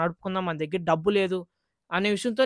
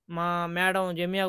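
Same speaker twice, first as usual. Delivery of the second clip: slow dull voice; 5 dB quieter, much slower than usual. Shown as a demonstration. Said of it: "ఈ మాదిరి చెప్తే ఎవరు చూడరు".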